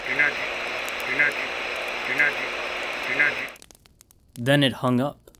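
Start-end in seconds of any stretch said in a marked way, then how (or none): 0.1-3.3 stuck robotic repeat; broken record. Acted. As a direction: loop it like a skipping record. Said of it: "repeating the last phrase ... like a broken record".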